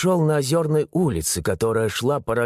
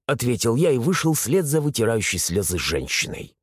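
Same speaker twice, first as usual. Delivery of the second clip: ordinary delivery, nothing marked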